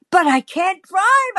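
high, distressed protest; hammed-up helpless appeal; pleading. Pleading with the man.

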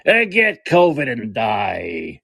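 very slow, drawn-out heckler's holler; imitated yell. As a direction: stretch each word like a crank calling after someone. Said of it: "he turns and says".

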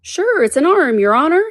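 "arm" said in two syllables, arum. A narrator's reading. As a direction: stretch "arm" into arum, high-voiced. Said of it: "He pronounced it arum".

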